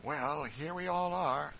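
high, loud and slow satisfied remark; slow, loud cheerful Quaker; Phineas, pleased. A narrator's reading. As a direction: settle in, pleased with the spot. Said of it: "said Phineas".

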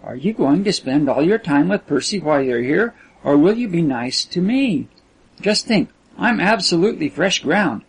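lightly voiced girl, coaxing and eager; lilting girlish appeal; coaxing Kisman.

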